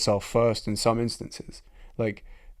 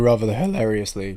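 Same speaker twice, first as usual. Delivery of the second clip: voice crack; 5 dB louder than usual. Real, not acted. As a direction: voice cracking mid-word. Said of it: "that was a voice crack and a half".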